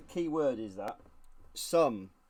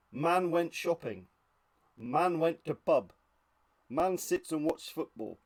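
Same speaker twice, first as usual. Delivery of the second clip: mock headlines; 3 semitones higher, slower than usual. Mock dull news headlines.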